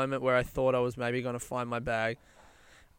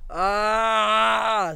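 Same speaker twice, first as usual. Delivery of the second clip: loud, high, drawn-out "ah"; long sigh; 7 semitones higher, 4 dB louder than usual. Real, not acted. Comedian recovering from his own joke, long sigh. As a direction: let out a long vocal sigh after laughing. Winding down after laughing.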